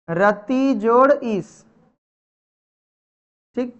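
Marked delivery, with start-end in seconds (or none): 0.1-1.6 slow teaching. Shown as a demonstration. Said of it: "teacher spelling out sandhi slowly".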